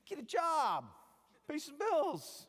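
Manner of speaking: high, loud blunt command; emphatic exclamation. Real, not acted. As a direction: bark it out like a coach giving orders. Blunt exhortation to students.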